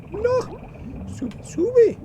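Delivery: high urgent yell; shouting. Real, not acted. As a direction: yell it at the screen. Hit a mine, panicking.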